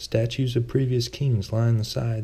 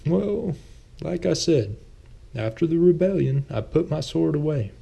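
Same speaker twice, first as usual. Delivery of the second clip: Thomas; 7 semitones higher than usual. A narrator's reading. Thomas flustered after jab.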